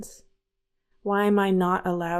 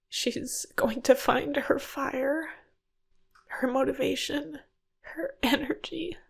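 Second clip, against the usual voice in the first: fighting back tears while speaking to her past self; choked up; 2 semitones higher than usual. Real, not acted. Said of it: "I'm a little choked up right now".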